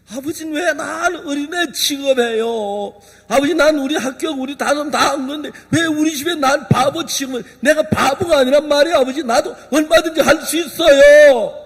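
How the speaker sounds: defiant son. Acted. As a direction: talk back to father, insisting you're no fool. Son arguing with father.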